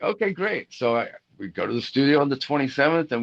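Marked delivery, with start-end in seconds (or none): 0.0-0.7 much higher, mock stunned; surprised reply. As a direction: squeak it out in disbelief. Speaker's own surprised reply retold.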